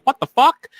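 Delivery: high shouted disbelief; shocked. Retold or imitated. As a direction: react to a shocking find. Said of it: "I'm like".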